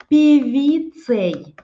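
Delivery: slow stressed певицей; stressed example word. Shown as a demonstration. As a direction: lean on певицей, slowly. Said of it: "Например".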